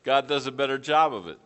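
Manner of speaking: said through a laugh. Real, not acted. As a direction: chuckle as the line comes out. Laughing at own remark.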